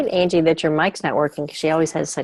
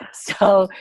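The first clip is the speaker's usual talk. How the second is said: whisper; 2 semitones higher, 4 dB louder than usual. Real, not acted. Aside after a laugh.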